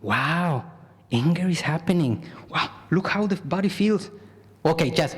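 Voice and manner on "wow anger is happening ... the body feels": curious, gentle noticing; calm observing. Shown as a demonstration. Teacher demonstrating the calm, curious second option. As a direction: watch the anger with interest. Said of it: "Option number two".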